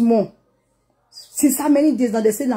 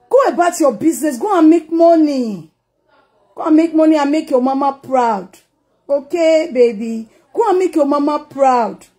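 loud scolding; 3 semitones higher, 5 dB louder than usual. Acted. Scolding her sister.

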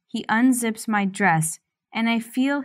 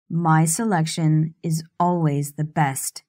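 husky slur; 4 semitones lower than usual. Acted. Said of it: "He slurs his words huskily".

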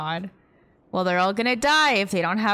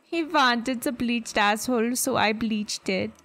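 light put-on Swedish accent; a touch of a Swedish accent; mock Swedish accent. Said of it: "You went full Swede".

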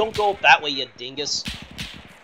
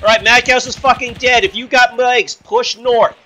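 loud callout over gunfire; man down shout; 3 semitones higher, 5 dB louder than usual. Real, not acted. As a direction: shout the bad news, then the order. Squad leader calls teammate dead.

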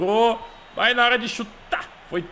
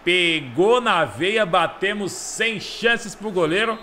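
explosive goal commentary; much slower than usual. Real, not acted. Celebrating goal, stretched out.

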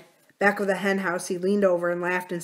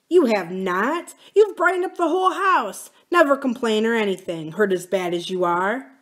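higher, earnest reassurance; gently protest, lifting the pitch; lightly voiced devoted husband; 4 semitones higher, 4 dB louder than usual. Husband reassuring his sick wife, mildly fervent.

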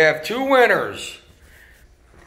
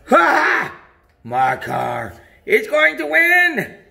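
gloating Joker; 4 semitones lower than usual. Acted. Dad voices the Joker.

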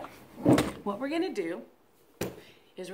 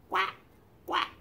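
duck quack. Shown as a demonstration. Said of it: "the ducks all go like this".

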